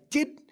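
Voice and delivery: "tid" said with the tongue on the roof of the mouth; tongue on palate. Shown as a demonstration. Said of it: "your tongue on the roof".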